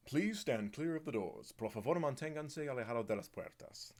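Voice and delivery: like the automated monorail PA at the doors; monorail announcer voice. Pretend. Vlogger doing the monorail announcement for chat. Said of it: "Monorail voice".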